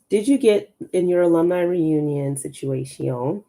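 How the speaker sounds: reading the question in a put-on French accent; lightly faked French accent, playful; fake French accent. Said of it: "this is my fake French".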